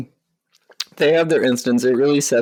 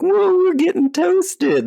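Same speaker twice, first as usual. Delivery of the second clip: very high, slow stoned drawl; squeaky stoned cartoon voice; stoner voice; 3 dB louder, slower than usual. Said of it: "and they're like".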